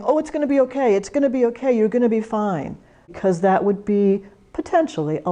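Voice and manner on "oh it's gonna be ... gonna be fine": high, sing-song "it's gonna be okay"; gushing false reassurance. Shown as a demonstration. Hugging a tearful caller, high and over-soothing. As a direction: pat them on the head with empty comfort. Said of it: "we don't want you hugging them and saying".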